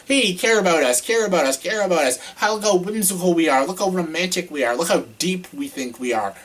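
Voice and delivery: mock the movie. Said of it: "trying to manipulate the audience".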